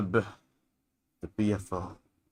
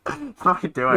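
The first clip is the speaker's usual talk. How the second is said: character voice; 8 semitones higher, 5 dB louder than usual. Pretend. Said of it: "Forza Craig voice".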